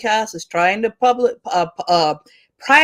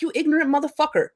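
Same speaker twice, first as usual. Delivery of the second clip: imagined angry comeback, higher and fast at the start; angry retort; 5 semitones higher than usual. Retold or imitated. Teacher imagines telling off a Facebook opponent, heated. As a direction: tell the ignorant opponent off, heated. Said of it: "I get really angry about this because I'm like".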